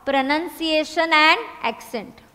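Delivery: very slow, word by word; slow dictation. Shown as a demonstration. Teacher dictating first point, slow. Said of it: "लिखो".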